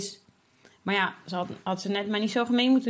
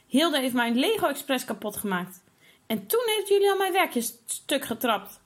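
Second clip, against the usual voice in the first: shouting over each other; 5 semitones higher than usual. Acted. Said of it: "Ze roepen om het hardst door elkaar".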